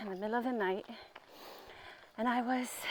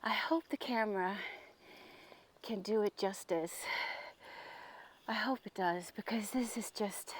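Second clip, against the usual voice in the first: whispered, much softer, hushed hope; 7 dB quieter than usual. Real, not acted. Vlogger hopes the camera captures the spot, whispering. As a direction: hush it so you don't break the moment.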